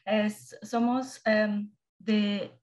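Spanish with Brazilian Portuguese accent; portuñol, Portuguese-flavoured Spanish. Real, not acted. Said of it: "perdón por el portuñol que voy a hablar".

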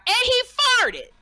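high, loud mock shout; heckler screaming. A heckler yelling at the comic mid-punchline, high loud shout. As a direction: yell it out over the punchline. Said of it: "the man screamed out".

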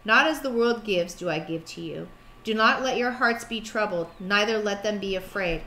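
measured, solemn Bible reading; scripture reading. Acted. Wife reading the verse aloud to her husband, solemn and measured.

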